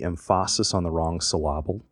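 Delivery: emphasis said em-PHA-sis and syllable said syl-LA-ble; wrong-footed accents on emphasis and syllable; misplaced stress. Retold or imitated. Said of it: "my brother used to say".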